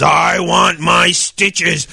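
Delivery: slow, drawn-out ghoulish line; mild monster moan. Retold or imitated. The speaker retelling Igor's demand, slow moan. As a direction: moan it lightly like Igor. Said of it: "and he says".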